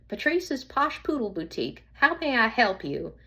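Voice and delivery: a cheerful Southern shop greeting; light Southern accent. Acted. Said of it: "in her light Southern accent".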